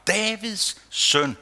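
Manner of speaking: slow hushed plea, not a real shout; crying out. Acted. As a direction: stretch out the call, then fall to a whisper. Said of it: "men han råber bare".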